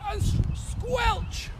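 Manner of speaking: slow, high-pitched squeal of a squelch; a playful squeaky stretch on squelch. Pretend. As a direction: squeak the word out like sticky mud. Teacher squelches through pretend mud.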